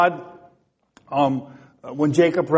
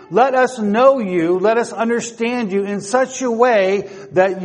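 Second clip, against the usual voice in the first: fervent prayer; 3 semitones higher than usual. Acted. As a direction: pray it aloud with rising fervour. Voices a prayer to God.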